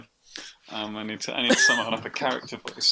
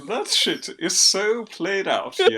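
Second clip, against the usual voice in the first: posh bastard voice; 6 semitones higher, slower than usual. Acted. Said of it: "that's the voice".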